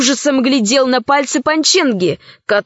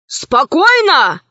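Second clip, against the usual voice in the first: shouted order; 3 semitones higher, slower than usual. Acted. The rat boss stops the room with a mild shout. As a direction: hold them in place with one word. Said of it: "закричал он".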